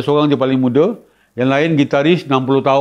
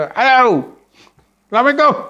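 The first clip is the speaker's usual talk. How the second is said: put-on high, eager boy's hello into the mic; kid's excited greeting; 9 semitones higher than usual. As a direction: greet the crowd like a nervous first-timer. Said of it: "dia kata". (budak teruja beri salam)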